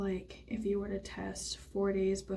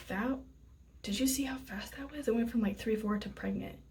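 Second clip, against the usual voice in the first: loud, excited, half-whispered; 3 semitones higher, 4 dB louder than usual. Real, not acted. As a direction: burst out in disbelief. Amazed at the fast result.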